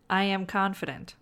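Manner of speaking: flat, dull sarcastic mumble. Shown as a demonstration. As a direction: say it like you don't believe it. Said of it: "hear my sarcasm".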